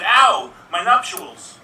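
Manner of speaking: loud slow cry of pain; pained yelp. Pretend. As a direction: yelp it out, hurt. Waitress hit in chest.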